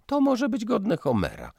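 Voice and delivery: venomous sarcasm. Acted. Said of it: "zjadliwie powiedziała panna Klima".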